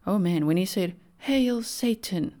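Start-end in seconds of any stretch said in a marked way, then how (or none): 1.2-2.3 higher, very slow, drawn-out mock menace; mock sinister declaration. Killer addressing the court at sentencing, hammed-up menace. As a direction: stretch it out like a theatrical villain.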